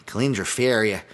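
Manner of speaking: lightly voiced Chicago tough guy, name said "Fairia"; Dennis Farina. Podcaster jokingly says a fighter's name like a film actor, lightly mimicked Chicago voice. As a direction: say "Kalindra Faria" like a Chicago movie guy, "Fairia". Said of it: "I always wanna say Kalindra Faria like".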